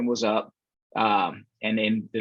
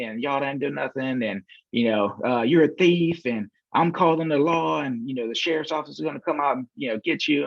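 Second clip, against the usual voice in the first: higher-pitched mock tirade; mildly imitated livid customer; 4 semitones higher than usual. Livid customer phoning the salesman about stolen money, mildly imitated anger. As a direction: retell her angry accusations in a raised pitch. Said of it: "this lady is livid. I mean, she's giving me the up and down, she's cussing".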